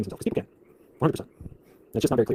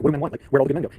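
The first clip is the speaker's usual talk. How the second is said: higher, louder mock plaintive voice; mocking women's lament; 5 semitones higher, 9 dB louder than usual. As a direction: whine it like a hammed-up lament. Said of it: "They're like".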